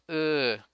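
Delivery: "uh" as an unstressed schwa. Shown as a demonstration. Teacher explaining schwa to students, an unstressed "uh". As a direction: say "uh" loosely, with no stress. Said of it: "it's not stressed".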